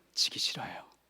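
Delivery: hushed, quiet, whispered aside.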